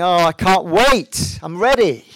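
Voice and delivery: loud, high, drawn-out exultation; acted eagerness. Preacher voicing a dying brother longing for heaven, loud acted eagerness. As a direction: imitate someone bursting with anticipation.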